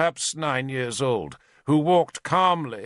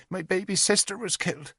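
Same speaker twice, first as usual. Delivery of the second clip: put-on high, small child's voice, reciting; a nine-year-old saying rehearsed words; young girl; 9 semitones higher, faster than usual. Little witness telling the lords her loss, childlike recital.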